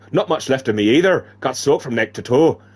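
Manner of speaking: lightly faked Irish woman's voice; a hint of Irish lilt; put-on Irish accent. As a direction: try an Irish character accent. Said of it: "Fragile squinted into the distance".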